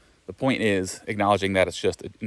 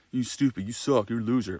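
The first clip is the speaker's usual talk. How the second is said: harsh inner critic; 3 semitones higher than usual. Retold or imitated. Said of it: "this is me talking to myself".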